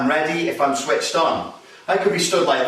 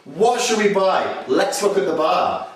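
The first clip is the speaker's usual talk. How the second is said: put-on apologetic drunk; 5 semitones higher than usual. Shown as a demonstration. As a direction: play the sorry pissed bloke steering him to the bar. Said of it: "if you really wanna de-escalate a situation".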